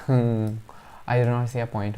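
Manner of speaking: laughing nervously through the words; slow, with a nervous laugh. Real, not acted. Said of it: "It's a nervous laugh".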